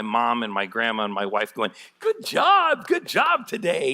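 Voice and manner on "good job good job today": high-pitched cheerleading relatives, hammed up; mock encouragement. Mom and grandma cheering a tiny new church, mock encouragement. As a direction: imitate family cheering in a squeaky high voice. Family cheering weakly attended launch.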